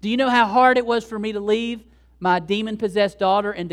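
loud, emphatic pushback; acted insistent protest. Mother telling Jesus how hard coming was, loud insistent protest. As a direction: protest forcefully as the worn-out mother.

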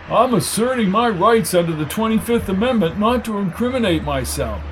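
a hint of pompous self-defence; flustered suspect. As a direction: recite it with mild panic.

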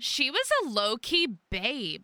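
put-on fast gushing teen gossip; valley girl voice. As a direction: gush like a teen fangirl. Young nuns gossiping.

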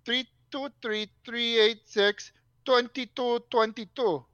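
slow, fumbling readback of numbers; mocking slow readback. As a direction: read it back like you barely follow.

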